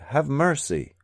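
high, urgent plea for mercy; pleading cry. A narrator's reading. Peasant woman begs the commissar with a pleading cry. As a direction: beg him outright. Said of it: "she cried".

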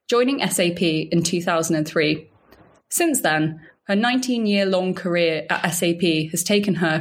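polished, even host read over music; podcast intro read. Acted. Host introducing the show and guest to listeners, in a scripted intro read.

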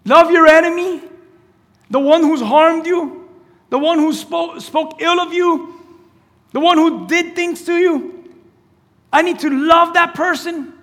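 high-pitched protest at a hard command; incredulous. Acted. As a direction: question it in rising disbelief. Voices disbelief at loving enemies.

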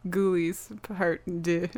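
slow mock French pronunciation of Deux; French accent. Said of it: "Or as they say in France".

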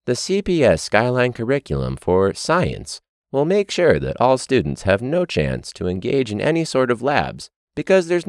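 robotic corporate ad voice. Retold or imitated. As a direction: drone it like a bad voiceover. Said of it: "Did I sound like a robot?".

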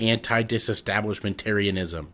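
"Anti-disestablishmentarianism" said slowly, every syllable clear; slow full pronunciation. Shown as a demonstration.

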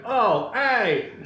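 terrible mock British accent, high and drawn out; hammed-up British, stretched and half laughing. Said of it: "British accent that's been on this show".

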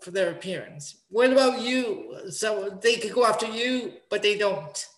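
wrestling promo. Pretend. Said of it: "I want you to cut a promo right now".

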